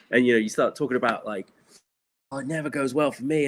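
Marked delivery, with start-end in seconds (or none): 2.3-3.5 mock self-pitying moan.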